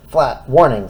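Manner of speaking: loud ringing warning call; bell voice. Acted. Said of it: "said the bell".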